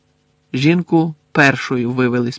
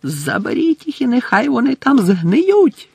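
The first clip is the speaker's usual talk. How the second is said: high, louder curse; furious yell; 11 semitones higher, 3 dB louder than usual. A narrator's reading. Crouch yelling at dementors, furious. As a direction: let them rot. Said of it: "загорлав він дементорам".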